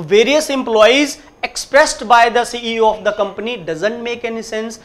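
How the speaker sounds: very slow, word by word; slow classroom demonstration; slow read-aloud. Shown as a demonstration. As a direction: reread the sentence deliberately for students. Teacher rereads wrong sentence.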